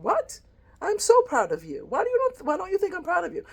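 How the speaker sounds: high, loud, astonished reply; a mother stunned her daughter doubted her; mother exclaiming in disbelief, high and loud; startled mother. Retold or imitated.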